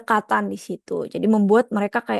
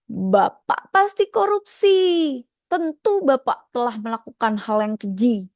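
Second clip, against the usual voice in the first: judgmental accusation. Shown as a demonstration. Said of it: "tidak boleh menghakimi".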